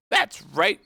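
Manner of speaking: high, loud approval; shouting queen. Acted. Queen approving the soldiers' report, shouted. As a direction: shout it back briskly. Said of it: "shouted the queen".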